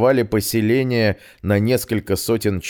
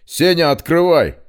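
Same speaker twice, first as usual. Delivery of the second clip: loud call to open up; 9 semitones higher, 6 dB louder than usual. Acted. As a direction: shout to someone inside. Петрович зовёт Сеню. (громкий оклик)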